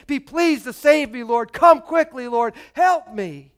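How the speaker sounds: psalmist's loud cry for help. Acted. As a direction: call out urgently to the Lord. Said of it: "he cries out".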